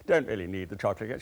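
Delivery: quick, lightly put-on English accent; brisk polite refusal in a mock English accent; best English accent. Passenger declining cake on a London flight, put-on English accent. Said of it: "putting on my best English accent".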